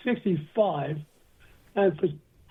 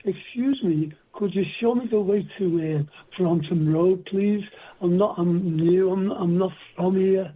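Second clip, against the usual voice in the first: soft Liverpool accent. Shown as a demonstration. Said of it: "I had a Liverpool accent, which went like this".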